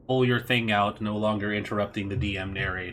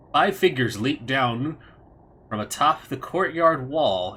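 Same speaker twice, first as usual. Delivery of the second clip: louder, lifted game master narration; scene narration; 4 semitones higher, 4 dB louder than usual. A narrator's reading. Game master reveals five masked figures to the players, dramatic narration. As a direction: read out the arrival dramatically.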